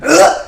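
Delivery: short effort grunt, acted out; throwing grunt. Child throwing a rock over the fence, effort grunt. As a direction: grunt as if heaving a big rock. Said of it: "And then I went".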